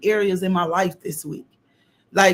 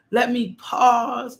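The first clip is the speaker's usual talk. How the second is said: preaching cry; 5 semitones higher, much slower than usual. Real, not acted. Preaching at full force.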